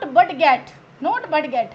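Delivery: budget split as but get; mispronounced budget; wrong way. Shown as a demonstration. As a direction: say but get as two words.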